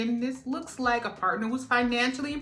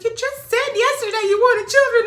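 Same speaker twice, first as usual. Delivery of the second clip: friend reminds; 13 semitones higher, 10 dB louder than usual. Retold or imitated. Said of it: "She said".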